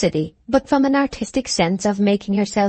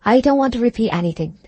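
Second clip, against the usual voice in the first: a touch of dignity; 4 semitones higher, faster than usual. Acted. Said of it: "said Liddy with womanly dignity".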